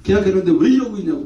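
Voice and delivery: mock-indignant boss; angry owner. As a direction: tell off a worker with acted annoyance. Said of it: "오히려 화를 내면서".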